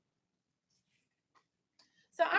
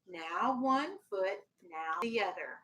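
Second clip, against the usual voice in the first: gentle grandfather; 5 semitones lower, slower than usual. Acted. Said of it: "his grandfather said".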